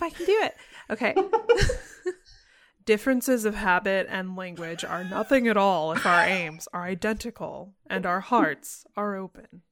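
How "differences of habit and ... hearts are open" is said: Dumbledore voice. Acted. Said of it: "I'll drop down to a deep baritone".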